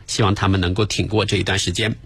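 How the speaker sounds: words broken by a hiccup; talking while burping. Real, not acted. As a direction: hiccup right at the end. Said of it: "哎呀，打嗝了". (打着嗝说话)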